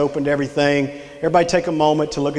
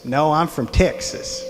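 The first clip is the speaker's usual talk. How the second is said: lightly put-on slow Texas drawl; a hint of slow Texas twang; slower than usual. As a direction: imitate her best Texas accent, drawn out. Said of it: "in her best Texas voice".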